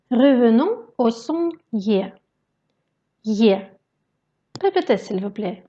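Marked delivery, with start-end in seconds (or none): 3.2-3.6 "Ye" as a short i gliding into open è; ye as in pied. Shown as a demonstration. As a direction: glide "Ye" like the ending of French "pied". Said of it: "identique au son français ye dans le mot pied".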